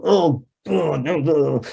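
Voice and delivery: retold groan of frustration, starting high; frustrated groaning. Lifter sitting up after a failed bench press, frustrated groan. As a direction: groan out the exasperation, dropping in pitch.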